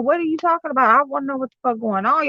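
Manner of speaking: somewhat high mock scolding; retold irritated parent. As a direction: demand answers in a mildly worked-up retelling. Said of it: "And I'm like".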